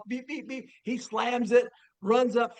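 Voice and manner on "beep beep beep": soft, higher-pitched beeping; little high alarm beeps; imitated door alarm. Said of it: "the alarm goes off".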